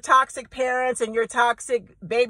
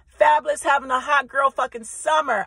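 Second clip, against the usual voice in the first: shouted brag; 2 semitones higher than usual. Real, not acted.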